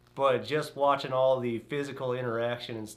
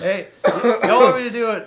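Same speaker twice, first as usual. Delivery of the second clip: West Texas accent; 7 semitones higher, 12 dB louder, faster than usual. Real, not acted. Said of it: "The West Texas accent's coming out".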